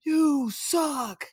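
high mock shout back; playful retort yell. Left fielder replying to heckling fans, high mock shout. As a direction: fire it back teasingly. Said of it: "And he would reply".

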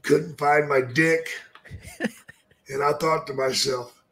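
a gloomy undertaker confessing; Paul Bearer impression. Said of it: "He's like".

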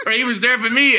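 laughing it out, high and loud; real laughter while saying it. Real, not acted. Laughing at the Grim Reaper joke.

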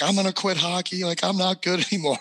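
lightly voiced upset boy with a laugh; mock kid despair. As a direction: imitate your younger self wailing about quitting. Retold eleven-year-old's despair after cut.

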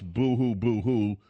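mocking boo-hoo whine; sarcastic pretend sobbing; fake crying. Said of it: "And the commies tell us".

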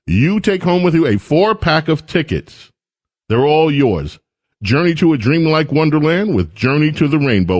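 upbeat radio giveaway pitch; radio contest promo. Acted. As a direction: sell the ticket giveaway with energy. Reads a ticket giveaway promo.

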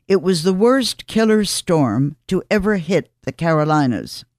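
measured column read with deliberate pauses; scripted radio commentary. Acted. Host telling listeners of a remembered hurricane, scripted commentary. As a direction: read it out phrase by phrase, dropping at the ends.

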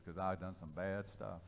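low, soft admission; acted-out subdued confession; quiet confession. Man quietly confesses his wrongs.

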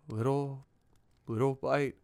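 ordinary talk, nothing marked

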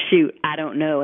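long Oklahoma drawl on "Shoot"; lightly drawled Oklahoma quote; a hint of Southern twang. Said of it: "in this, like, long drawl kind of thing".

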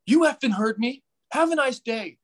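hammed-up angry brush-off; mock angry teammate. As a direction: teammate snapping at a fan. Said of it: "he's like".

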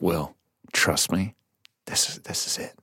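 hushed director. Retold or imitated. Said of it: "And they were like".

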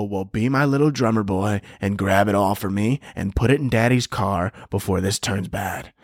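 mock gangster menace; menacing tough guy. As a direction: threaten coolly, gun in hand. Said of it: "I go".

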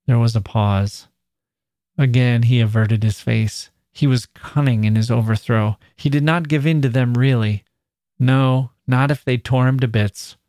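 measured, even read-aloud narration; story narration. A narrator's reading. Narrator tells of the girl confronting him, measured narration.

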